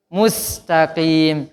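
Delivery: slow Mustaqim, clear s sound; drawn-out Mustaqim with a crisp s; sin in Mustaqim. Shown as a demonstration. Teacher models the s in Mustaqim. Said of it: "Pakai sin".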